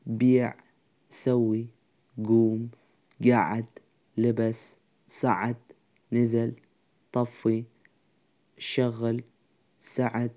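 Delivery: word-by-word list reading with pauses between; pronunciation demonstration. Shown as a demonstration. Teacher pronouncing fixed roots for students, measured word-by-word demonstration. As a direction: say each root separately, evenly spaced.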